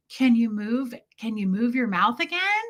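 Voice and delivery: lightly imitated baby talk; coaxing question to a baby, rising at the end; Brenda. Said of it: "this is how they would talk to a baby".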